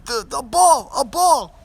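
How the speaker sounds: put-on high, loud little-kid voice; be the toddler pointing up at the moon. Dad voicing his son showing Grandma the moon, high toddler voice. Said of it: "and he was pointing up".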